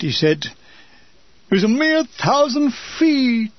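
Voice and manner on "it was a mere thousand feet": lightly drawled W C Fields voice; a hint of W C Fields; W C Fields impression. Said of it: "imitating W C Fields".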